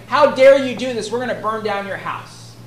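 mock indignation, loud at the start; imitating affronted accusers; indignant retort. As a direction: voice the accusers' outraged threat. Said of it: "They're saying the same sort of thing".

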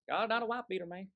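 lightly mocked Southern voice; Southern accent. Preacher repeating the slogan he mocked, light Southern accent. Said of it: "a southern accent".

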